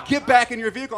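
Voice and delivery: high-pitched shouted orders; retold yelling. Border patrol yelling at a driver out of his car. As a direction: imitate officers yelling in alarm. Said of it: "they're all yelling".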